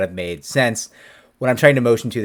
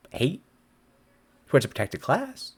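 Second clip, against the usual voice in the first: normal talking voice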